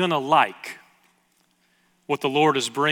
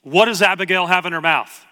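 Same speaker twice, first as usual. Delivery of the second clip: mock yell, somewhat louder and raised; retold yell; 3 semitones higher, 5 dB louder than usual. Wife calling from the kitchen about Abigail's mouth, retold yell. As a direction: call it out like an alarmed parent. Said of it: "and she yells out".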